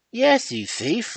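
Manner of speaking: father roars at his son. A narrator's reading. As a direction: bellow it at him while shaking him. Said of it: "I roared".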